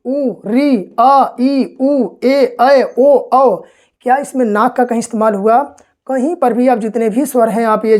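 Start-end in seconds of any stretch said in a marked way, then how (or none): 0.1-3.6 each Hindi vowel उ, री, आ, ई, उ, ए, ऐ, ओ, औ said one by one, clear and separate; vowel sounds demo. Shown as a demonstration. Teacher demonstrating Hindi vowels to students, clearly separated vowel sounds. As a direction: spell out every vowel उ to औ slowly and cleanly for the class. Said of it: "स्वर आप बोलते हैं".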